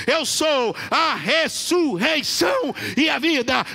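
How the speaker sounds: slow, rising to a high shout; building proclamation. Real, not acted. Pastor stirring the church with Jesus' sayings, building to a shout.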